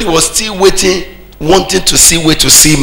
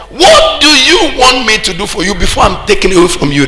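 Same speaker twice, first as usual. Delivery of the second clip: high, proclaimed question; declaimed offer; 6 semitones higher than usual. Retold or imitated. Preacher voicing Elijah's last offer to Elisha, declaimed. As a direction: declaim it like a prophet, pitch raised.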